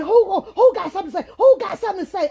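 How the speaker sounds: high, fast confrontational call; mock challenge. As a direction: dare the room to speak up. Acts out a challenge to group.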